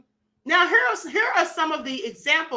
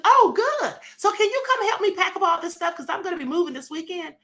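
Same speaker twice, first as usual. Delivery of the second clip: sweetly scheming ask, pitched higher; scheming friend; 4 semitones higher than usual. Retold or imitated. Friend tricks her into packing, mock sweet request. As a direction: bait her into helping. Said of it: "I'm not gonna say".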